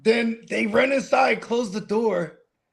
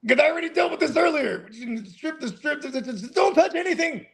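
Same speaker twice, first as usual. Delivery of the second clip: higher-pitched, re-enacted exasperated plea; retold exasperation; 6 semitones higher than usual. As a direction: plead as if replaying a domestic squabble. Retelling exasperated quarrel with girlfriend.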